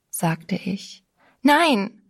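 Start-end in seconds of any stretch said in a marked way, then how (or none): 1.4-2.0 a sudden high, loud cry of refusal; screaming no. A narrator's reading. Girl screams no at the narrator who names Jesus. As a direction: shout it out, higher and louder. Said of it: "schrie sie".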